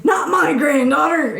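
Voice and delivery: mock-outraged cry of a frantic grandfather; freaking out. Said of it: "he's, like, freaking out".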